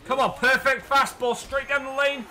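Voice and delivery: high, loud laughing shout; laughing cheer. Real, not acted. Gamer cheering his pitcher's perfect fastball. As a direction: whoop it through a laugh.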